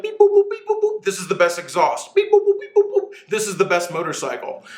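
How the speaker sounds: high beeping machine voice; robot voice. Pretend. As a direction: play a chirpy computer reading results. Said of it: "it would be like".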